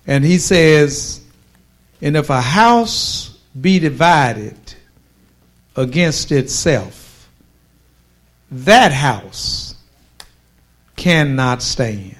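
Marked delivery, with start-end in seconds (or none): 2.0-12.2 measured verse reading in longer phrases; solemn pulpit reading, clause by clause; scripture reading. Real, not acted. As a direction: read the verse out deliberately, pausing between clauses.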